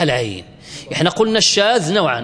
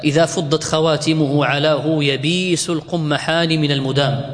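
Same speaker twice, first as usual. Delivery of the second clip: put-on slow measured recital of a line of old poetry; reciting verse slowly. Teacher reciting the poet's verse to students, slowly. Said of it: "كقول النابغة".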